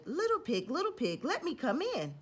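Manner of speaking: high, pleading wolf at the door; big bad wolf voice. Wolf begging the pig at his door, high and sweet. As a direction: beg sweetly to be let in.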